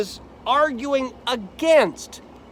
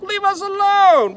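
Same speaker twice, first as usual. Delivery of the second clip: defiant wicked voice; 9 semitones higher, 5 dB louder than usual. Acted. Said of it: "Yet they say to God".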